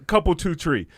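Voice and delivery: white South Side Chicago talk; Chicago accent. Shown as a demonstration. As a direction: say it like a Chicago local, "tree" for three. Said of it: "impression of a Chicago accent".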